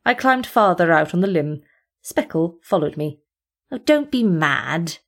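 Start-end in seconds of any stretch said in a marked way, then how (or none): 3.7-5.0 teasing whine. Acted. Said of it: "he whined teasingly".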